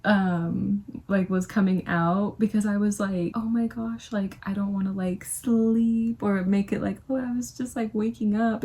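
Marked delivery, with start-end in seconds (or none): 3.3-8.6 fake persona voice. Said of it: "fake persona ... kind of voice".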